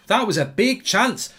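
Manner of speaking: a quick, light Scooby-Doo impression. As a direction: drag the words out like Scooby-Doo. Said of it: "Scooby-Doo".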